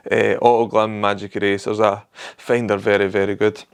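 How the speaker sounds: talking through hiccups; words broken by hiccups. Real, not acted. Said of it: "Sorry, I've got hiccups".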